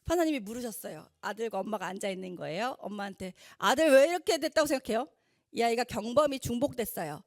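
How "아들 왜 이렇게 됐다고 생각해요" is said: voicing the judge. Judge questions the mother.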